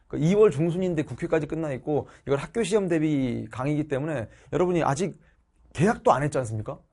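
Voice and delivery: ordinary talk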